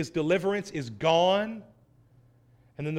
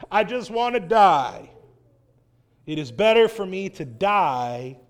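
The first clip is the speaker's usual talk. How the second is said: mock dramatic Jonah; 3 semitones lower than usual. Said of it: "this guy is so dramatic".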